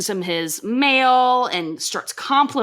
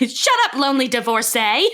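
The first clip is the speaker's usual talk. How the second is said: higher-pitched, half-hearted yell; mock yelled insult; 4 semitones higher than usual. Peggy insults Bill from the sidewalk, mock yelling. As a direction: jeer it like a playground taunt. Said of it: "just yelling with her little notepad".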